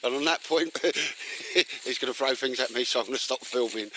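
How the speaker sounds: talking through real laughter, pitch lifted; laughing. Real, not acted. Filmer signing off after teasing his mate, laughing. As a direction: break into giggles between phrases. Cracked up at own marigolds joke.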